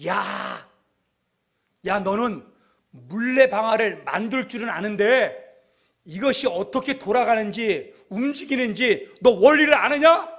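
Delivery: taunting challenge, building from level to loud; mocking. Big schoolboy jeering at young Newton, mocking. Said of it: "뉴턴을 향해서 조롱하는 거예요".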